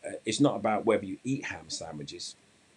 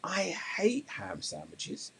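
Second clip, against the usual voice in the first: drawn-out, higher-pitched grumble of disgust; shouted complaint; 9 semitones higher, much slower than usual. Acted. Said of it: "he shouts out".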